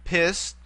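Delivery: "Pis" set apart as one syllable. Shown as a demonstration. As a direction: sound out "Pis" alone, then pause. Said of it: "it too has three syllables".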